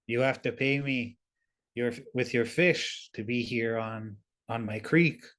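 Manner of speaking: lightly voiced intimidating big being; a hint of a big, intimidating voice; intimidating creature. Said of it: "puts on a big intimidating voice".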